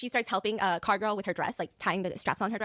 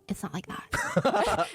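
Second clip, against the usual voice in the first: slow, high, drawn-out "It's not like that" said as a bored non-denial; cousin's unconvincing half-hearted denial; 10 semitones higher, much slower than usual. Retold or imitated. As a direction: drag "It's not like that" out high and flat so nobody believes it. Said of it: "Can you make it more believable?".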